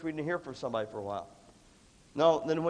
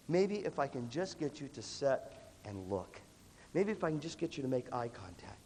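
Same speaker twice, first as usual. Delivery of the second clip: patient coaxing; 3 semitones lower, 7 dB quieter than usual. Acted. Acted patient coaxing of kid.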